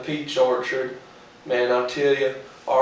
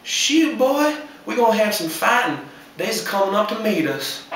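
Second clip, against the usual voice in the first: excited; 7 semitones higher than usual. Retold or imitated. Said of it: "I said".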